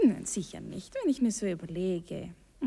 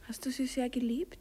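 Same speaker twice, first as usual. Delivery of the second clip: whispered question; 12 semitones lower than usual. Acted. Wife asking about past lover.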